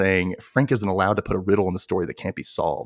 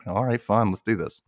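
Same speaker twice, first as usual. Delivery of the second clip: reluctant. Retold or imitated. Denny gives in to the riddle, reluctant. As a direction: give in grudgingly. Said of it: "He's, like, really reluctant".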